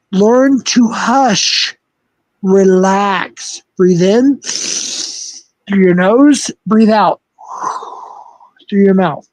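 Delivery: slow, patronising breathing coach; condescending calm-down. Pretend. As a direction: talk him down like a child. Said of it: "Don't talk down to me like that".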